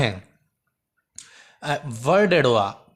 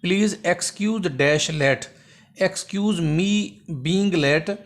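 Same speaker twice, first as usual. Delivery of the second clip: drawn-out reading of the question and the wrong option; teacher dictating slowly; slow dictation; much slower than usual. Shown as a demonstration. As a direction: read each word slowly. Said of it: "हाणे हे बि तमामु important अथव".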